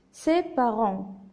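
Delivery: slow teacher's reading; syllable by syllable. Shown as a demonstration. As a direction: read it slowly in separate syllables. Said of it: "j'ai séparé le texte en syllabes".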